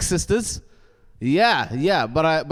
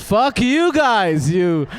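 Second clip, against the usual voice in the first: mock outburst; 4 semitones higher, 4 dB louder, much slower than usual.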